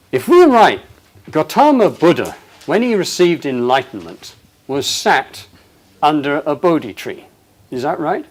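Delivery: animated retold question. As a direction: ask it like an excited host. Retelling an excited question.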